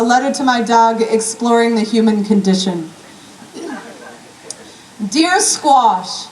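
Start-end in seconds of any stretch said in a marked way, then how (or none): 5.1-6.3 heartfelt, comic poetry recital; spoken-word poem. Acted. Poet reads to Squash the dog, spoken-word delivery. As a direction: recite it as a rhythmic, driving love letter.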